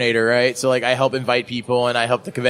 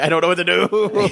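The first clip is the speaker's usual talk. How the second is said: flustered laugh; 6 semitones higher than usual. Retold or imitated. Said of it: "I was like".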